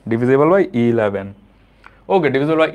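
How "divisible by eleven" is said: slow emphatic. Shown as a demonstration.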